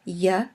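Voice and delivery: "y" said as a short "yuh"; consonant y sound. Shown as a demonstration. Teacher showing how yod starts a syllable, consonant y sound. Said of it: "either pronounced like a y".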